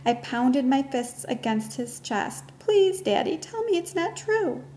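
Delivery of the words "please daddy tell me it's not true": high, breaking plea; desperate pleading. Acted. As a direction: beg him to take it back. Girl pounds father's chest, pleading.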